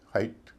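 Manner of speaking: हाइट said with an "eye" vowel; known pronunciation. Shown as a demonstration. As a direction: say हाइट rhyming with kite. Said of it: "इसका उच्चारण तो आप जानते हैं". (हाइट, "आइ" की आवाज़ के साथ)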